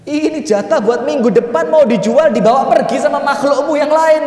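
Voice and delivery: widow's loud wailing protest; anguished outcry. Acted. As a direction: cry out at God in protest.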